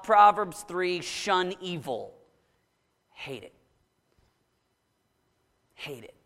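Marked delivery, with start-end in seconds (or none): 3.1-3.5 disgusted. Shown as a demonstration. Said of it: "I want this actual wrinkled nose, ticked off". 5.7-6.1 disgusted. Shown as a demonstration. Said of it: "I want this actual wrinkled nose, ticked off".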